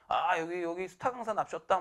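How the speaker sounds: imitated sneering announcement of a star; mock fanfare for the rookie, lightly done; sarcastic. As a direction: tease with fake reverence. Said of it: "막 이러고 막 비꼬고".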